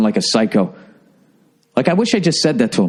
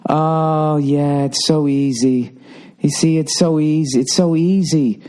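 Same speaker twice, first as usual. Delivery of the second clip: smug mother imitation; slower than usual. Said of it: "she just goes".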